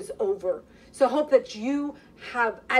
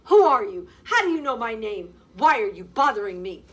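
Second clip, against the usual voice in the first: frightened questioning; 5 dB louder than usual. Acted. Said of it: "questioned the disheveled young lady".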